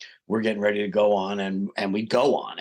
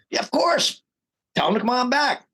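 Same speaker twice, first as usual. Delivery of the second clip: mock casual excitement; 13 semitones higher than usual. Retelling his eager reply.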